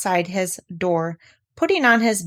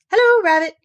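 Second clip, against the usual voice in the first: calling out; 12 semitones higher, 7 dB louder than usual. Acted. Pooh greeting Rabbit.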